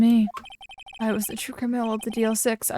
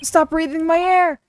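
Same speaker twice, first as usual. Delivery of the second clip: higher, louder and slow, a deranged man roaring; frenzied shout; 7 semitones higher, 6 dB louder, slower than usual. Acted. Suffocating bailiff screams at the father, frenzied. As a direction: bellow it like a man losing his mind for air. Crazed man attacks in elevator.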